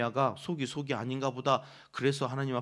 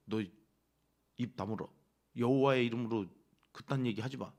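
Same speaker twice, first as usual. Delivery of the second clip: mock threat; 4 semitones lower than usual. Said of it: "이러니까".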